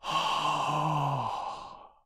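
soft, hushed oh; awestruck. A narrator's reading. Boy staring at the landslide, soft awestruck oh. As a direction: let the awe out quietly. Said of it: "in awestruck tones".

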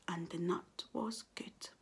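soft contented whisper. A narrator's reading. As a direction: end on a hush. Soft ending.

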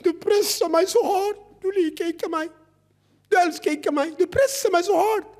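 put-on high, pleading child's whine; whiny child voice. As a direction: whine like a child pushed too hard. Son whining to father.

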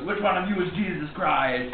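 slow action-star impression; Arnold Schwarzenegger. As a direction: lightly imitate a ponderous action hero. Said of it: "Arnold Schwarzenegger pops in and goes".

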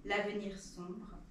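solemn recitation, line by line; poem reading. Acted. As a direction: recite it as a poem with deliberate pauses. Reads second poem aloud. (récitation de poème, grave et posée)

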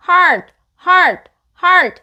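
"hard" with the final d only lightly released; touch and release the d at the end of "hard", no added vowel. Shown as a demonstration. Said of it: "D는 살짝만 발음하시는 거예요".

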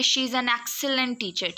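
"excellent" made the prominent word; stress on EXCELLENT. Shown as a demonstration. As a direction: put the weight on "excellent". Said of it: "एक्सीलेंट word जो है उस पर भी". ("excellent" पर ज़ोर)

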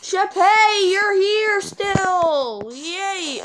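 high, slow, delighted call; light up at finding the sheep; high, excited reunion with the sheep. Real, not acted. Finding his sheep again.

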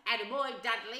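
lightly voiced proud father, chuckling approval; a hint of a hearty, indulgent dad; Uncle Vernon. A narrator's reading. Father praising his greedy son, amused and proud. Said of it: "Uncle Vernon chuckled".

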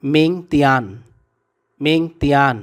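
"মিং তিয়ান" as ming, tian, falling at the end; shown pronunciation. Shown as a demonstration. Teacher gives learners the Chinese for tomorrow, "মিং তিয়ান" in separated falling beats. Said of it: "Bangla উচ্চারণ হবে".

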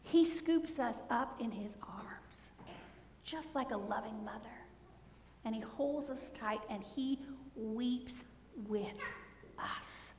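whispered tenderness in the pulpit; tender whisper. Acted. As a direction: hush it like holding a child. Tender image of God's embrace.

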